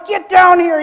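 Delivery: loud shout for the family; calling the husband and kids down in alarm; screamed call. Retold or imitated. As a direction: yell it across the house. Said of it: "I scream for my husband".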